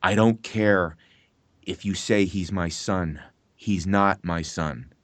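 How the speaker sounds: slow, low, measured line read; slow cold denial. Retold or imitated. Actor reading the father's cold denial, slow and low. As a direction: let each word land heavily, like a father disowning. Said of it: "and I'm paraphrasing".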